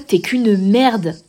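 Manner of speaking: mock furious insult, drawn out and loud; imitation d'insulte hurlée. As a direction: retell a yelled insult, stretching it slowly. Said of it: "je disais ça en hurlant". (insulte rejouée, martelée lentement)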